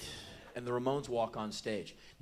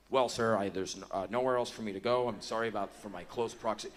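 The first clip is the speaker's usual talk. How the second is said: meek apology; 4 semitones lower than usual. Retold or imitated. Boy Scout apologizes to big fella.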